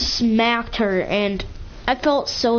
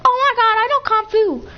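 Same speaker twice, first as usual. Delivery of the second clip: squeaky high mock girl bragging, much higher; high and a bit louder, hammed-up kid brag; 11 semitones higher, 3 dB louder than usual. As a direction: play a boastful little girl, pitched way up. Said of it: "she was like".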